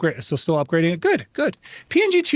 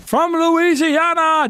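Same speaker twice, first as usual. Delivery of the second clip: booming, drawn-out actor's voice, high and slow; Matt Berry impression; 13 semitones higher, 4 dB louder, much slower than usual. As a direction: stretch it out in a grand silly voice. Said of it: "I do a pretty good Matt Berry impression".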